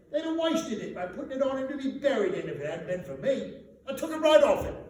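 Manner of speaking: high, loud brazen cockney woman; flaunting charwoman. Acted. Charwoman to the thieves, high brazen flaunting voice. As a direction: flaunt it, shameless and defiant.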